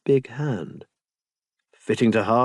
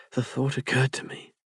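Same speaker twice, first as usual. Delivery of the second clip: breathless; 6 dB quieter than usual. Acted. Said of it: "Locksley sounded rather breathless".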